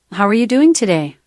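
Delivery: lightly Irish-accented polite question. Shown as a demonstration. Assistant giving the host accent samples, Irish accent. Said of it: "Irish accent".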